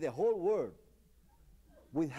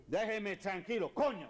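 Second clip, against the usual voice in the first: mock angry; 4 semitones higher than usual. Shown as a demonstration. Teacher demonstrating telling someone off when mad. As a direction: act mildly fed up. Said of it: "When you are mad".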